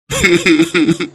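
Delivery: low burst of broken sobs; sobbing. Acted. Husband begging his wife's forgiveness, sobbing. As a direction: break into low, pulsing sobs. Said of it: "నువ్వు ఏడవకయ్యా".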